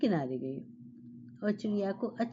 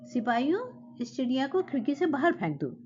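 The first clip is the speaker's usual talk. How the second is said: king's annoyed order, pitched higher; angry command; 5 semitones higher than usual. Acted. Angry king orders guards to throw bird out, raised voice. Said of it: "राजा को बहुत गुस्सा आया".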